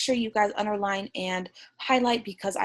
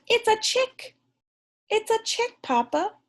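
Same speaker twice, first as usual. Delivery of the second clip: much higher thrilled chick voice; excited reread; 13 semitones higher than usual. Acted. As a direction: squeal with joy like the chick. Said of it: "when she said".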